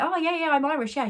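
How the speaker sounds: high-pitched, eager little voice; imitated eager reply. Acting Megan's friendly reply.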